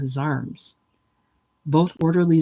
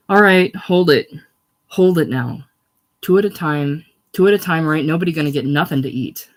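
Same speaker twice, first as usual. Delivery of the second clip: barked crowd orders, louder on each hold; orderly's loud command; 5 dB louder than usual. Acted. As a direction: call the jostling crowd to order. Orderly controlling crowd at breakfast.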